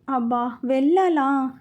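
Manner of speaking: slow, drained reluctant sigh of a question; weary groan. Acted. Groom dreading office after wedding, slow weary groan. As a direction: drag it out like Monday morning dread. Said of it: "అనుకునేసరికి నీరసం వచ్చేసింది".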